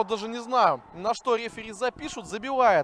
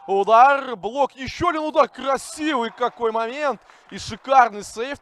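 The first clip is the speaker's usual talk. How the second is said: excited; 3 semitones higher, 6 dB louder than usual. Real, not acted. Shot and save call.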